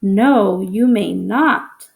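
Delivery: a firm, slow refusal: "No, you may not"; strong emotion. Shown as a demonstration. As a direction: hit "No" hard and stretch out "you may not". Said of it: "I need to read it with strong emotion".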